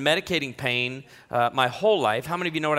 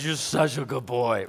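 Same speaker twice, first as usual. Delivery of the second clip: wife praising; 4 semitones lower than usual. Retold or imitated. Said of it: "she pulls one out and says".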